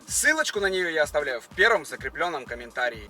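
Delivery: upbeat promo announcer read. Acted. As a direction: pitch the giveaway like an ad. Sponsor giveaway ad read.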